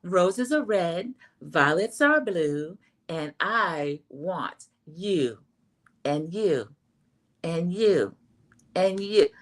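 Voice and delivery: slow, drawn-out poem, a light take on Mel; lightly voiced Mel, reciting slowly; Mel impression. The speaker imitates Mel reciting a poem to the ladies, slowly. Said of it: "I'm gonna do a Mel impression".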